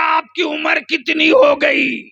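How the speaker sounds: high, loud shouted question. Retold or imitated. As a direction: belt it out to the crowd. Dramatic retelling to crowd.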